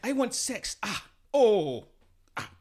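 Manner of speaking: high-pitched, hammed-up Nigerian movie woman; terrible Nigerian accent. Mimicking Nigerian movie women for friends, in a terrible Nigerian accent. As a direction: ham up a Nigerian movie actress, badly. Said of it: "you make a terrible, terrible impression".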